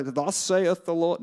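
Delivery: slow, drawn-out zombie proclamation; mock zombie trance. Preacher mocking being overtaken by God, zombie-like. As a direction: intone it like an entranced zombie, hammed up. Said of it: "get in a zombie state and go".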